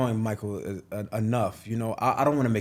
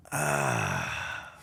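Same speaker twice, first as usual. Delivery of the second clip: hesitant phone "ah"; 13 semitones lower, 9 dB quieter than usual. Retold or imitated. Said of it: "that noise".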